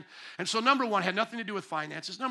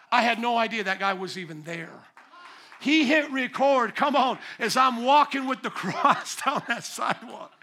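laughing and louder; 3 semitones higher, 5 dB louder than usual. Real, not acted. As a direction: chuckle through it. Laughs retelling.

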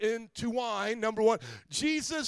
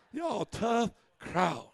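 tough crowd; much slower than usual. Real, not acted. Pastor teasing silent congregation.

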